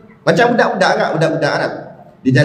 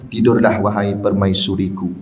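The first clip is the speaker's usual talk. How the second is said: tempting whisper; 7 semitones lower than usual. Retold or imitated. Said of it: "dia bisik kat telinga kita".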